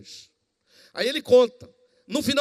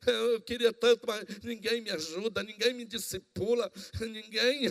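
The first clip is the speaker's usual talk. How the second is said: whining complaint; 5 dB quieter than usual. Retold or imitated. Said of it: "Em vez de tá chorando assim".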